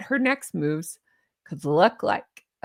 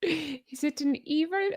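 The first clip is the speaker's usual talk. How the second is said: Doctor Evil; 6 semitones higher, 6 dB quieter than usual. Retold or imitated. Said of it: "How about Doctor Evil?".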